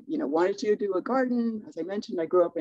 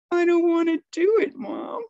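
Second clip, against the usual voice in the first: put-on higher, louder sulky little girl voice; defiant child; 10 semitones higher, 4 dB louder than usual. Daughter refusing her mom, mock sulky child voice. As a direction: play the stubborn kid who won't budge.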